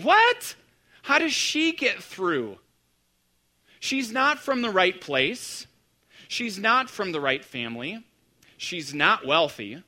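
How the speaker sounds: high What? then slow indignant listing; scandalized disbelief. Retold or imitated. Pastor voicing Mary's doubters, shocked and slow. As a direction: gasp What? and list her failings slowly. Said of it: "We would be saying".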